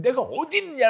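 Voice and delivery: high, annoyed whine; irritated voice. Shown as a demonstration. God calling Adam with open annoyance. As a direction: sound fed up with the search. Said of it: "짜증나는 목소리와 표정".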